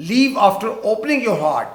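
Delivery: very slow, word by word; slow dictation. Shown as a demonstration. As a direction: dictate slowly for the class. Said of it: "دل کی بات کر کے جانا".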